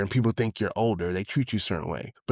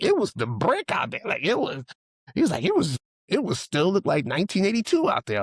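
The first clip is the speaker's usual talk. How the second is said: higher voiced amazed friend; imitating friend; 9 semitones higher than usual. Friend describing the old neighborhood, higher and amazed. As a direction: paint the block as frozen in time, higher.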